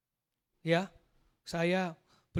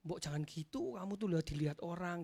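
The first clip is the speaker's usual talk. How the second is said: softly imitated wife, low and unscolding; hushed, mild reproach; mild-mannered wife; 5 semitones lower, 6 dB quieter than usual. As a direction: chide gently, without any nagging. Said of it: "Istri saya nggak pernah ngomelin saya".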